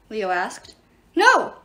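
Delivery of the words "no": high, loud cry of protest; sharp rise in pitch and volume; shriek. A narrator's reading. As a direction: shriek it in alarm. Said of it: "Achman shrieked".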